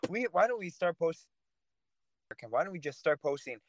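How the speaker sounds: sarcastic suggestion to Michael about posting hate for a book deal. Pretend. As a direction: pretend to want to sell out, dripping irony. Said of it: "I'm being sarcastic".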